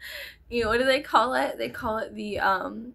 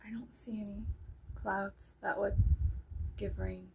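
hushed whisper; 7 dB quieter than usual. Real, not acted. Peering out after the sound.

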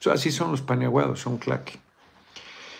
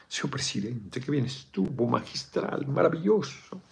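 softer fawning praise of the president; mock flatterer; 3 semitones higher, 5 dB quieter than usual. Courtier praising the president at the besamanos, softer and fawning. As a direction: flatter the president in a hushed sycophant tone. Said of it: "le llamaban el besamanos".

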